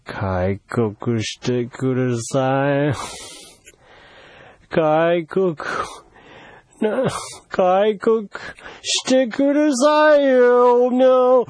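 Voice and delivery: coaxing appeal that grows insistent; pleading. Acted. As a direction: beg slowly, then press harder. Pleads for the country to open.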